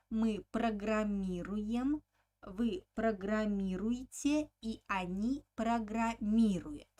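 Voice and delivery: программировать and each following form stressed on МИ; steady teacher's drill, stressed И from программировать to программируют. Shown as a demonstration. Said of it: "on the letter E".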